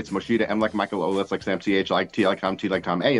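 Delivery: quick-fire booking; fast reservation call. Retold or imitated. New Yorker booking dinner by phone, fast. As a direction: rattle off the booking and spelling fast. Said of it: "I go".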